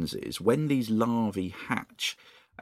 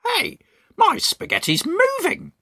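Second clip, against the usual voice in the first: much higher, louder alarmed cry; Mr Twit crying out; 7 dB louder than usual. Acted. Mr Twit spotting his moving spaghetti, high alarmed cry. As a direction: squawk it out as the startled husband. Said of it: "cried Mister Twit".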